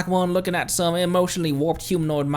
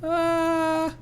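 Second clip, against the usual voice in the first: higher, reassuring companion voice; high sidekick voice; 10 semitones higher than usual. Acted. Paimon tells the group not to worry, in a high sidekick voice. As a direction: lift it up and calm everyone down.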